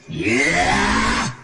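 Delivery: high-pitched "yah" attack cry; battle yell. Acted. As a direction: let out a sharp fighting yell. (ngagorowok narajang)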